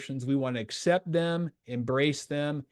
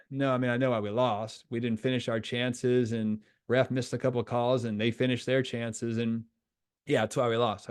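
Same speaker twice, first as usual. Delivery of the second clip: lower, mildly deflated reply; resigned admission; 3 semitones lower than usual. Retold or imitated. Player telling coach why they lost, mildly resigned. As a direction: imitate a player reluctantly owning up.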